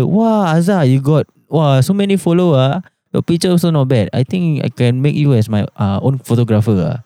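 imitating impressed auntie. Friend's mother voiced praising.

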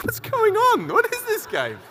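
high confused squeal; baffled high voice. Retold or imitated. Retelling own confusion.

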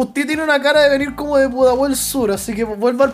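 mock Saint Peter. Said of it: "Eres San Pedro".

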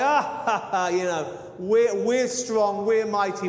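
boastful. Acted. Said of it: "He was boastful".

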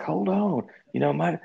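high, pleading voice; pleading buyer. Retold or imitated. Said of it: "he's like".

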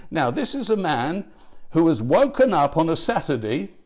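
normal talking voice

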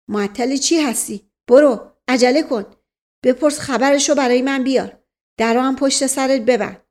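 mildly angry, hurrying command; impatient command. Acted. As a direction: order the servant off impatiently. Impatient master orders servant off.

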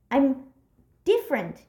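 "I'm", a held pause, then "different"; dramatic pause. Retold or imitated. Quoting the wavy-hands movie line, pause before "different". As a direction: leave a gap before "different". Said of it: "but in that pause".

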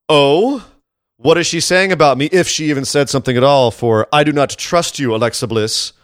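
hammed-up wooden soap line, slowing at the end; mock dramatic acting. Podcaster reenacting a bad backstage wrestling scene, mock dramatic. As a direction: imitate stilted acting, drawing out the distrust. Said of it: "in an acting tour de force".

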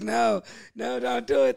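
high, loud mock panic; retold alarmed plea. Retelling the crash to friends, a loud high mock panic. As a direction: yell at her to stop, replayed. Pleading as girlfriend swerves.

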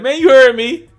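mock tough kid talking back; defiant comeback. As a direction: stand your ground and throw it back. Kid defiant toward driver.

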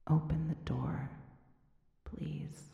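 faint, fading plea, almost breathless; weak voice. Acted. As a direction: plead weakly through a keyhole. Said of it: "A weak voice came through the keyhole".

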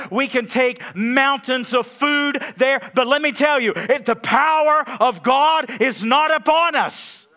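loud, high, impassioned preaching to the congregation; preaching at full force. Acted. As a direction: thunder it from the pulpit, building the fire.

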